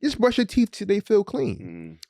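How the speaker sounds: high-pitched, exasperated urging; exasperated dad. Retold or imitated. Exasperated father urging his daughter.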